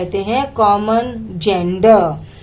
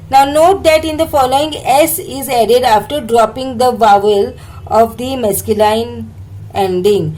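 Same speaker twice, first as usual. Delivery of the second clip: slow, deliberate reading of an English textbook line; much slower than usual. Shown as a demonstration. Teacher reading the textbook slowly to students. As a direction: read each English word out slowly for the class.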